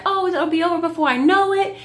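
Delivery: a hint of a wise little girl; mock child staying cool before the dentist; imitating Nova.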